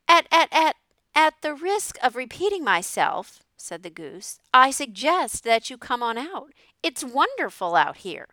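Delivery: high, loud goose voice stuttering at the start; loud stammering goose. A narrator's reading. The goose insists the pig come out, loud and high stammering. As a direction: honk out the opening stammer, then carry on high and loud.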